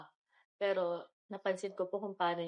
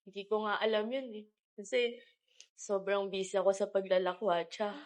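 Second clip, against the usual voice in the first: crying. Acted. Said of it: "Sorry, naiyak ako".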